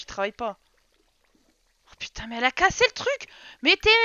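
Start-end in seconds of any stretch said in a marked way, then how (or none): 1.9-3.9 high, loud disbelief; indignant outcry. Real, not acted. Player seeing her Sim broke the thing, indignant outcry. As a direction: exclaim in exasperated shock.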